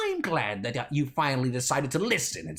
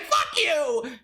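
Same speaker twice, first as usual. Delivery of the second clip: angry shout; 7 semitones higher than usual. Acted. Shouted insult.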